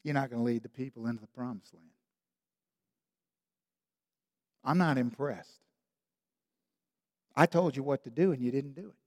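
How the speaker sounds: soft, low warning; God whispers to Moses, soft and low; God's quiet rebuke. Retold or imitated. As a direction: murmur the judgement into his ear. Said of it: "God whispers in his ear".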